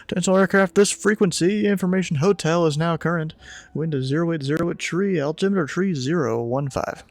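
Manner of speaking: formal announcement to all aircraft; radio broadcast voice. Acted.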